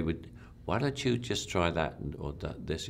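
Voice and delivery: soft, gentle director's suggestion; hushed, mild director's note; quiet suggestion. Retold or imitated. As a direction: offer the note quietly, almost in passing. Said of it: "it's done very quietly".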